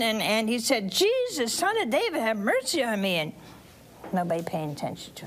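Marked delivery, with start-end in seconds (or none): 0.9-3.2 high-pitched plea, settling by the end; mock yelling. Blind man yelling to Jesus for mercy, mock yell. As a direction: cry out for mercy without real volume. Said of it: "he was yelling and screaming".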